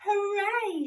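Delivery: high, loud cheer; shouted hooray. A narrator's reading. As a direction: cheer it out with joy. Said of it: "shouted Little Beaver and Duck".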